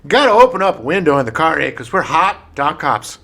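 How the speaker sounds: put-on hot panting police dog, Canadian accent; mock Canadian dog cop. Playing hot police dogs.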